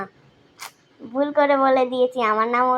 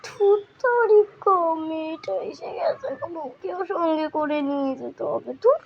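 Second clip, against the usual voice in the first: annoyed; 4 semitones higher than usual. Acted. Annoyed at girl arriving.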